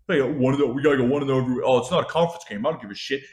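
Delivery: hurried, dismissive mimicry of a coach; mocked coach-speak. Fan parroting the coach's excuses about a conference game, mocking. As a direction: rattle off the coach's excuses carelessly. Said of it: "the Pitt head coach was like".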